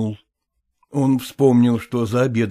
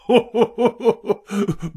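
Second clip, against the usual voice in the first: short mocking chuckle; dismissive laugh; 11 semitones higher than usual. A narrator's reading. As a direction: laugh her suspicion off. Professor laughs off jealousy. (насмешливый смешок)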